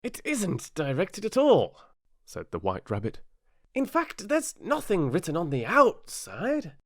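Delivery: high, small rabbit voice; timid rabbit. A narrator's reading. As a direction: squeak it out nervously. White Rabbit reads paper.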